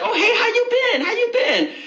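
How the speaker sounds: high-pitched, over-friendly hello; eager greeting. Acted. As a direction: act keen to catch up with an ex. Acting the ex's eager greeting.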